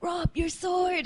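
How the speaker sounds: high, slow mock cry of alarm; Catelyn calling to Robb. Retelling Kat finding Robb hacking a tree, high slow mock cry. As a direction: stretch it out high like a worried mother. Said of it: "she's like".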